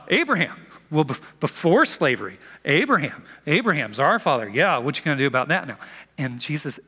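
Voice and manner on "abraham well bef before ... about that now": smug retort. Retold or imitated. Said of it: "They're like".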